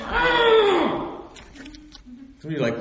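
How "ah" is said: high, loud frustrated yell; mock mad yell. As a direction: someone so mad they just yell. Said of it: "You ever get so mad you go".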